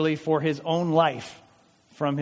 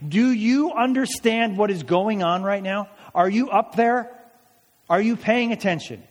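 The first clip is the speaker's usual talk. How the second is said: raised, urgent voicing of a desperate king; crying out to God. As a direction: plead upward, half acting it out. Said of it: "one person crying out to God saying".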